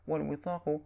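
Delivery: والوطاق pronounced "wal-witaq", kasra on its waw. Shown as a demonstration. Narrator explains the word to listeners, والوطاق with i after w. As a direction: say والوطاق with a short i after the opening w. بكسر الواو.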